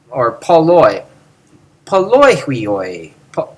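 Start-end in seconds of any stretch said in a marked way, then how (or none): 1.9-3.1 poloihuioi slow, each syllable clear; slow careful poloihuioi; careful pronunciation. Shown as a demonstration. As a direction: spell out poloihuioi slowly. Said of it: "that's how you should say it".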